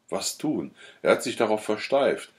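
ordinary delivery

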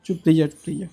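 low, soft hushing; soothing. Real, not acted. Man tells the crying grandmother to hush, soothing. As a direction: hush them gently, voice dropped.

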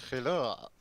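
loud mock Dutch hello that comes out French; a failed Dutch accent; hammed-up fake Dutch; Dutch accent attempt. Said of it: "No, that's French".

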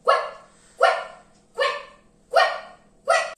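high, unvoiced duck quacks "quack". Shown as a demonstration. Teacher shows the kids the duck action, high duck quacks. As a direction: sound out "quack" as a high breathy duck call. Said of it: "Do your hands like this and say".

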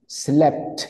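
"Slept" with both the P and the T sounded; todas las letras. Shown as a demonstration. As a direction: articulate every letter of "Slept", through the final PT. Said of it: "Ahí pronuncio todas las letras". ("Slept" pronunciando tanto la P como la T)

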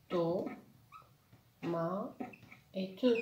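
"To, ma et te" with a long pause after each syllable; split into syllables. Shown as a demonstration. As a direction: hold each beat of "To, ma et te" apart. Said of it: "Trois syllabes".

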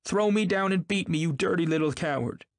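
high, loud furious scolding. A narrator's reading. Wife screaming defiance at her husband, loud furious scolding. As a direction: taunt him, screaming with rage. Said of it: "loud and scolding".

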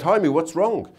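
lightly put-on Jewish accent, wife in a joke; mild Jewish-accented impression of a wife. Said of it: "he said it in a Jewish accent".

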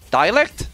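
"Dialect" as die-uh-lekt, questioning; checking pronunciation. Real, not acted. Streamer checking the pronunciation with chat, "Dialect" as die-uh-lekt, questioning. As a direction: start "Dialect" like "die", rising at the end. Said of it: "I don't know what's the pronunciation".

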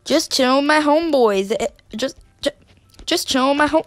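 talking while chewing gum; words round a piece of gum. Real, not acted. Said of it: "Sorry, I'm chewing gum".

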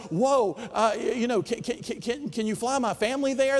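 taken aback, tripping into the request; flustered stammering. Retold or imitated. Professor asking ad agency for a favor, flustered. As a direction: stumble over the opening words.

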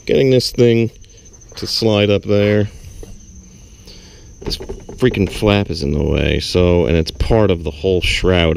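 strained, talking while wedged under a car; lying under a car. Real, not acted. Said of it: "I'm under the car".

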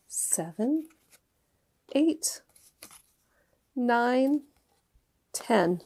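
put-on slow counting for kids; teaching a child to count. Shown as a demonstration. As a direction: count out each number slowly. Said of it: "Can you count with me?".

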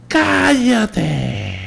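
high sharp yelled order; shout at the dog. Retold or imitated. Son turning on the dog, sharp high yell. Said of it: "a la perra sí me volteé".

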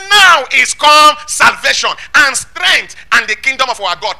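high, slow, shouted proclamation that settles at the end; booming scripture declaration, words drawn out; loud heavenly voice. Acted. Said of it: "I heard a loud voice saying".

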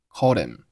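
"called him" run together, h dropped; linked words. Shown as a demonstration. Teacher showing learners linking, "called him" as one word. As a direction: slide "called" into "him" without the h. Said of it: "called和him连读成了".

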